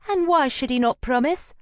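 loud, high indignant demand. Acted. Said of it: "Llewellyn demanded".

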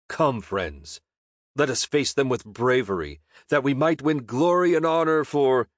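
a rallying speech that swells toward glory; heroic speech. Acted. Gregory rallies his friends before the goblin fight, heroic and building.

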